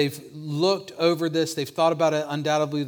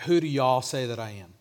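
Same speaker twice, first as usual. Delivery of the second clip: put-on lightly localized Rolesville accent, "y'all" for "you"; Rolesville y'all phrasing. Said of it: "if Jesus was from Rolesville".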